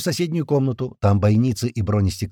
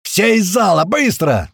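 high, loud urgent order; frantic yelling; 10 semitones higher, 7 dB louder, slower than usual. A narrator's reading. Narrator clearing the hall at the alarm, frantic yelling. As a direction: scream at everyone to get out. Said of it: "я орал, как потерпевший".

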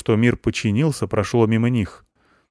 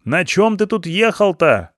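shouting; 9 semitones higher, slower than usual. Acted. Stepanych questioning Ivan, shouting. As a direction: yell as if he were deaf. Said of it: "не обязательно так кричать".

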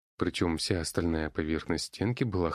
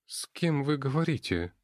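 frightened; 8 semitones higher than usual. Acted. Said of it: "испуганно спросила полуэльфийка".

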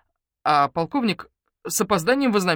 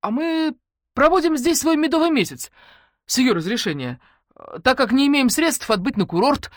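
mock explanation; 9 semitones higher, 7 dB louder than usual. Matvey mocks the colonel.

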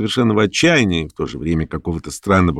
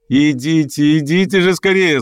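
higher, merry calling out; loud and cheerful; 7 semitones higher than usual. Acted. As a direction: gaily hurry him over. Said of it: "звала она громко и весело". (громко и весело зовёт)

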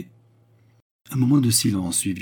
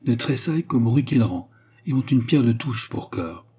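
lightly voiced woman, raised and emphatic; frank Baccarat; 4 semitones higher, 4 dB louder than usual. Baccarat tells the count of her reputation, emphatic. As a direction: lay out the accusation with force.

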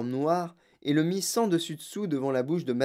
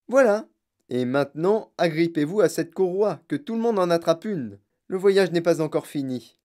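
louder, emphatic instructions; showman inventor, brisk; 3 semitones higher, 5 dB louder than usual. Acted. Inventor tells everyone to grab a strap, briskly. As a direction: take charge of the passengers cheerfully. Voices Wonka instructing passengers.

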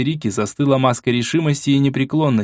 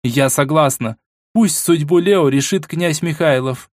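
higher, slow, cold royal verdict; icy tone; 5 semitones higher, slower than usual. Acted. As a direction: deliver the verdict like ice. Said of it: "ответила королева ледяным тоном".

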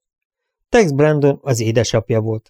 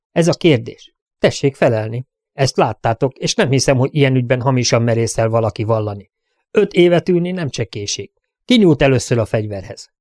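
a lawman pressing for a straight answer, a touch raised; stern sheriff questioning; 2 semitones higher than usual. Acted. Sheriff grilling the crowd about who drew first, stern. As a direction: demand the truth like a sheriff at a hearing.

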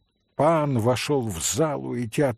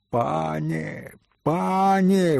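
wailing; 3 semitones higher, much slower than usual. Acted. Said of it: "возопил Митя".

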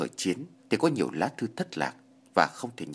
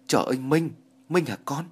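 put-on higher and louder, an old woman crying out in recognition; surprised cry; 5 semitones higher, 4 dB louder than usual. Old woman recognising Minh at her gate, surprised cry. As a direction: call his name as if you can't believe it. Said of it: "Bà kêu lên".

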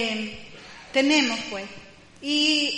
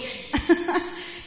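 short breathy chuckle; soft breathy laugh; 4 semitones higher, 4 dB quieter than usual. Real, not acted. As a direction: laugh softly under the breath. Thanks the brother, laughs. (risa suave y sin voz)

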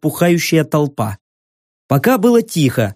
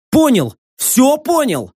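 frightened; 9 semitones higher, slower than usual. Acted. Terrified young man agrees.

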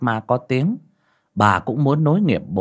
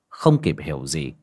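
ordinary delivery

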